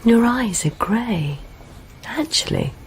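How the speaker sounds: slow breathy whisper of admiration; intimate whisper. Acted. Woman to Beck at night, slow tender whisper.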